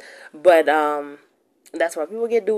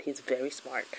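whispering; 3 semitones lower, 10 dB quieter than usual. Real, not acted. Whispered aside about her baby.

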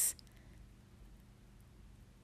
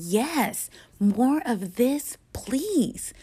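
louder and higher, slow, stretching each word of the plea; emphatic plea; 6 semitones higher, 5 dB louder, much slower than usual. Pretend. Gazing into loved eyes, asking the universe emphatically. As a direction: insist on "more", drawn out and ringing. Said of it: "I am emphatically saying".

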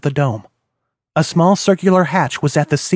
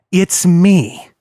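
boomed; 4 semitones higher, 4 dB louder than usual. A narrator's reading. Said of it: "boomed a voice".

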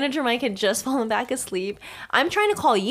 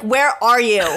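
louder, mildly angry imitation; retold mad demand; 5 dB louder than usual. Friend retelling the other's angry phone call, mock mad. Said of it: "You were mad".

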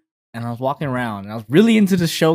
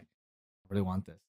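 put-on wistful kid; 8 semitones lower, 16 dB quieter, slower than usual. Kid longing for the DVD.

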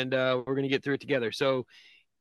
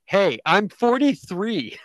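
slow, loud, higher all-caps reading; all caps text; 6 semitones higher, 6 dB louder, slower than usual. Retold or imitated. Host reading the old man's all-caps text loud. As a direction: shout the text like it's in caps. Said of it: "he texts in all caps".

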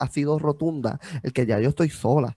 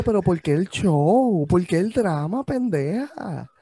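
scornful; 4 semitones higher, slower than usual. Real, not acted. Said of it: "scornful complaint".

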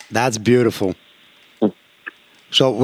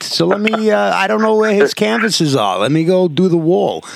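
lightly voiced kid, pitched higher; child's reasoning; 6 semitones higher than usual. Imagined kid deciding to paint the wall, lightly voiced reasoning. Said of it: "He's like".

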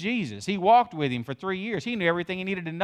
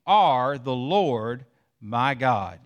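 slow devout quote; 3 semitones lower, much slower than usual. Acted. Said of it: "He says".

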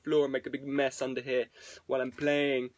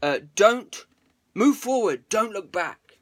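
quoted cheer; 5 semitones higher, 6 dB louder than usual. Retold or imitated. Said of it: "he says".

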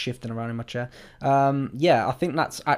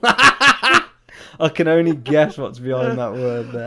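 prank reveal laughing; 9 dB louder, slower than usual. Real, not acted.

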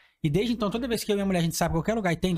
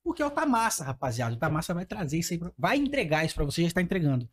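ad read. Acted. Leitura de patrocínio.

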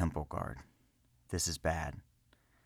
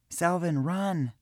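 scream; 11 semitones higher, much slower than usual. A narrator's reading. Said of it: "Irina screamed".

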